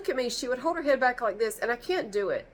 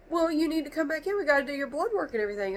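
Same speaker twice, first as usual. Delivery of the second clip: receptionist; 8 semitones higher, faster than usual. Retold or imitated. Receptionist voiced on phone call.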